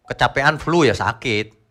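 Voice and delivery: normal talking voice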